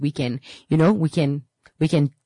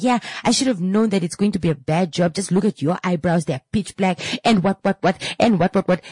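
higher-pitched mock scolding; shaming client; 4 semitones higher than usual. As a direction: imitate a client berating the beautician. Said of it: "shaming the service provider".

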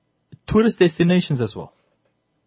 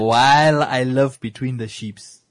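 put-on African accent; slower than usual. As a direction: lightly voice the wolf with an African accent. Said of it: "I had to put on my best African accent there".

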